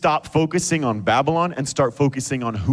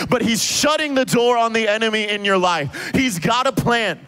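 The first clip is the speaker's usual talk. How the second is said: rising, sung-out preaching over music; preacher building to a climax over the band; 6 semitones higher than usual. Acted. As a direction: lift it into a preaching cadence.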